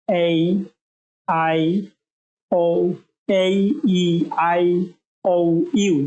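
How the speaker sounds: এই আই ও ইউ held out; long vowel sounds. Shown as a demonstration. Teacher modelling long vowel sounds, drawn out. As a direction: let each vowel ring a little longer. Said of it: "long sound".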